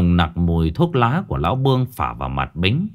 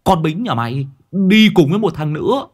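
booming; 5 semitones higher than usual. A narrator's reading. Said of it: "nó vẫn cứ nói oang oang". (giọng oang oang hớt hải)

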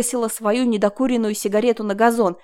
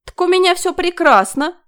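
much higher, louder elated cry; gloating with glee; loud exultant high voice; gleeful; 9 semitones higher, 8 dB louder than usual. A narrator's reading. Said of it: "веселилась она".

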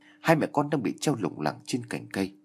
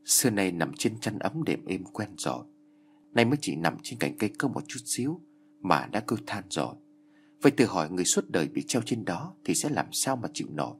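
calm. Acted. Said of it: "Ông già Tư vẫn bình thản".

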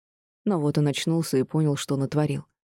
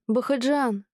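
shouted name, clearly higher, falling; desperate call; 8 semitones higher, slower than usual. A narrator's reading. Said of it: "кричала вслед мужу". (отчаянный крик вслед мужу)

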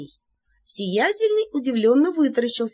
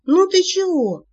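higher, louder playful challenge; teasing poke; 10 semitones higher, 6 dB louder than usual. Acted. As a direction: nudge him playfully. Narrator pokes vampire. (шутливый толчок, высоким голосом)

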